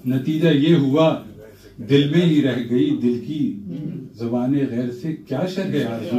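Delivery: playful measured poetic recital; humorous nazm recitation. Acted. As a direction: recite with a wry smile. Recites tazmeen.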